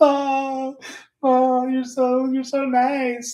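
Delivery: very high, slow, weepy, tearful blubbering. Retelling reacting to a woman's compliment, retelling own sobbing. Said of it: "I'm just sobbing".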